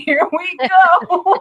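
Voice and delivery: laughing high through "Here we go". Real, not acted. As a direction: crack up while saying it. Laughing after own crude joke.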